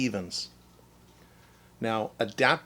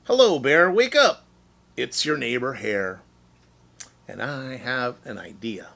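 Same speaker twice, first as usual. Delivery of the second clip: cheery wake-up call. Acted. Hare waking sleeping Bear.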